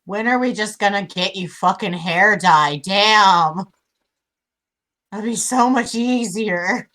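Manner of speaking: exasperated outburst, punching the last words; loud exasperation. Acted. Player griping about missing hair dye, loud exasperation. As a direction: complain loudly, stretching out the end.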